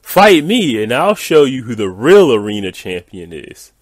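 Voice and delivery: hammed-up challenge, starting high and loud; theatrical angry-nerd taunt; Angry Game Nerd. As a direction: bellow it like a ranting gamer nerd, easing off at the end. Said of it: "I read this in the, uh, Angry, uh, Game Nerds, uh, voice".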